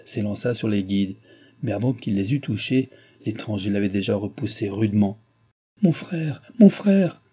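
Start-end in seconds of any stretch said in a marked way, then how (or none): 5.8-7.2 high call building louder; crying out. A narrator's reading. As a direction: cry out, louder on the repeat. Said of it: "cria mademoiselle Chon".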